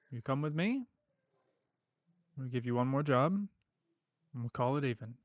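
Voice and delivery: lightly voiced Australian-ish heavy; calm threat with a hint of northern twang; collector's accent. Collector offering Pele a final job, lightly accented calm menace. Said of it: "I like his accent".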